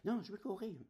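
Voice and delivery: high, loud stubborn cry; a boy yelling he'll run; mock childish yell, high and loud; child shouting back. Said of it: "Et moi".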